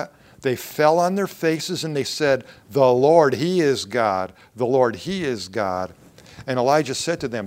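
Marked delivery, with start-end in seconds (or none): 2.7-5.9 loud, emphatic declaration; crowd's acclamation. Acted. The people fall on their faces before God, loud acclamation. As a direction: proclaim it loudly, like an awed crowd.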